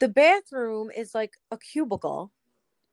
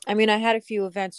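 chewing while talking. Real, not acted. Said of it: "Sorry if I'm chewing in your ear".

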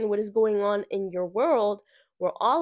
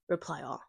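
"reply all" dropped low and soft, reply stressed; firm stress on reply all; 5 semitones lower, 8 dB quieter than usual. Shown as a demonstration. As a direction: lay a firm, falling weight on "reply all". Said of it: "Do not".

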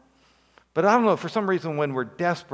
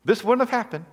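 pleading complaint to Jesus; 5 semitones higher than usual. Retold or imitated. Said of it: "Have you said that before to Jesus?".

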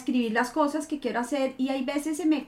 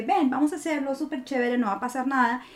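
big sister voice. Retold or imitated. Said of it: "que me dice".

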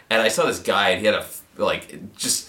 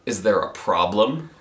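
slow, low challenge; calm intimidation; 4 semitones lower than usual. Retold or imitated. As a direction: step in as the big friend, unhurried. Huge friend steps in, retold.

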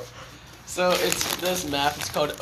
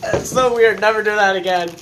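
disgusted; 5 semitones higher, 8 dB louder than usual. Real, not acted. Disgusted reaction after ASMR bit.

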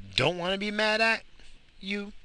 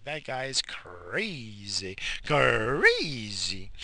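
slow, mock-shocked lady; drawn-out imitation of a startled woman; imitating the lady; 6 dB quieter, much slower than usual. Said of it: "she's like".

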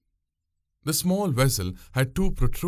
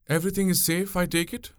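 put-on much higher young woman's voice, sly; probing; 9 semitones higher than usual. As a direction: fish for his secret innocently. Pungureli probes slyly.

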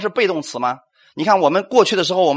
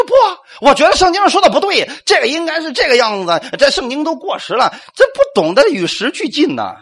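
mock know-it-all; 9 semitones higher than usual. Pastor mimicking believers who dismiss the Bible, higher mock scoffing. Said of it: "不要觉得".

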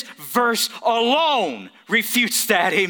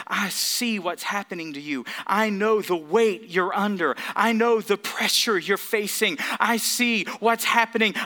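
tender Jesus. Acted. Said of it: "Jesus is saying to these precious people".

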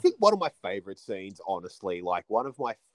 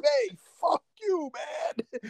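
higher, brash yell back; imitating New Yorker; slower than usual. Neighbour yelling back at Akeem, brash. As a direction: bark it like a grumpy neighbour.

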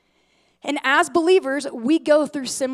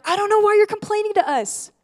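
higher, incredulous push-back; exasperated Moses; 8 semitones higher, 4 dB louder than usual. Retold or imitated. Moses answering the grumbling Israelites, higher and incredulous. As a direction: throw the complaint back at them. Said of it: "And he's like".

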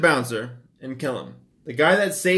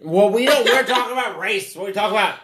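giggly, high-pitched tipsy protest; tipsy laughter; 7 semitones higher, 3 dB louder, faster than usual. Real, not acted. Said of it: "We're a little tipsy".

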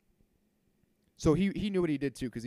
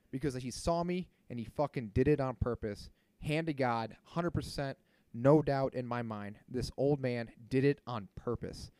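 real frustration; 4 dB louder than usual. Real, not acted. Venting to viewers about the rude old man, angry. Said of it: "I'm so frustrated just talking about it".

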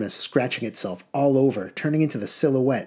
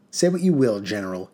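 cried out; 2 semitones lower than usual. Acted. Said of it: "he cried".

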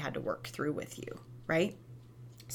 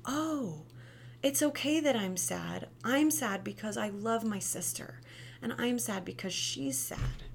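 put-on child's calm voice; 3 semitones higher than usual. Shown as a demonstration. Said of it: "teaching them".

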